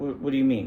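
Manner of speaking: plain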